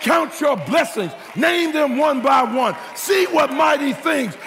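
full-force preaching climax. Real, not acted. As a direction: whoop it up, driving the church toward praise. Sermon climbs to full preaching.

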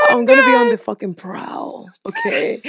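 hyped-up boast. Real, not acted. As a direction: crow it out like a cat on the prowl. Hyping herself up, on the prowl.

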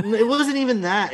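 high, laughing protest through real laughter; giggling denial. Real, not acted. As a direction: laugh the words out. Laughing after co-host's joke.

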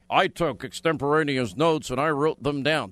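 mock the fired director's prim notes; mocking Comey. Host mocks Comey's testimony in a lightly put-on voice.

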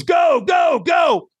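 high, urgent shouted command; trainer shouting go. Retold or imitated. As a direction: send someone off at full tilt. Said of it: "And he goes".

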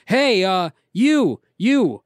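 high, drawn-in holler at a passerby; imitating a stranger calling someone over; homeless dude. Boardwalk stranger hails the podcaster, mock homeless dude. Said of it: "homeless looking dude, white dude, says".

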